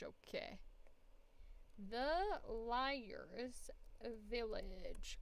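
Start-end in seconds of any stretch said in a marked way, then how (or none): 1.8-5.2 whisper. Real, not acted. Whispered title.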